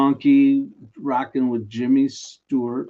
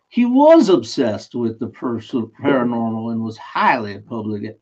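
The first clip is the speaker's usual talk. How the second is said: put-on New Orleans accent; 4 dB louder than usual. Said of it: "switching to, like, a New Orleans, uh, guy".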